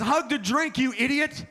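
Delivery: high mocking kid, lightly voiced. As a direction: sneer it like a cheeky little kid. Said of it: "I look at the kids".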